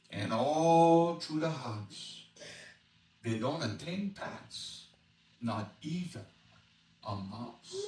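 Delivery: slow Cajun storyteller reading a rhyme; easygoing Cajun bayou narration; Cajun dialect reading. Acted. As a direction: read it in a lilting Cajun accent. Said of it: "an expert on Cajun dialect".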